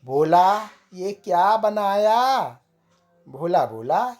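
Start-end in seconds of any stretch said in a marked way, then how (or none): 0.1-2.4 raised, higher angry call at the cook; a moderately loud complaint; customer shouting. Acted. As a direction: yell at the cook over the bad food. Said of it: "ग्राहक चिल्लाया".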